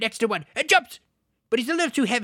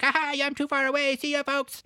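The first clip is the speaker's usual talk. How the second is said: higher, gleeful goblin jeer; taunting goblin; 4 semitones higher than usual. Retold or imitated. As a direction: tease them as an escaping goblin.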